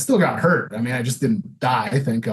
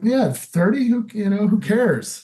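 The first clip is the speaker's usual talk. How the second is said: put-on careless teen shrug; 7 semitones higher than usual. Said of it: "I'm like".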